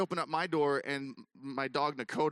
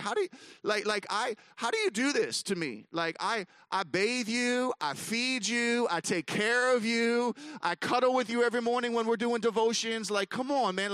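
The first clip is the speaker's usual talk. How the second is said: mock-hurt plea to the dog, pitched high; exasperated pleading; 7 semitones higher than usual. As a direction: plead with exasperation, stretching out each grievance. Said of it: "I'm getting mad and mad".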